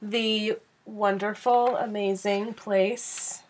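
slow, dramatic build-up; grand announcement. Real, not acted. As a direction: stretch it out like a big reveal.

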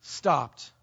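slow down and let it land; preacher repeating the key moment slowly; slow dramatic beat. Shown as a demonstration. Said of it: "dramatic repeat, slowed".

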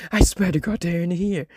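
a hint of a panicked man screaming. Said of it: "The man screams again".

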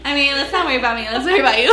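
talking between sips of a drink; speaking around a sip; while sipping a drink. Real, not acted. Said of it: "Can you guys hear me drinking this?".

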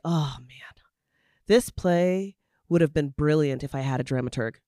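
whispered, wistful aside to herself; regretful whisper. Retold or imitated. Playwright looking back at her old play, whispering regretfully. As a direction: breathe it out like a private regret.

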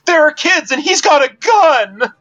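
high, panicked helpless shout; playing helpless. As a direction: cry out like a frightened victim. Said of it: "a defenseless and helpless voice".

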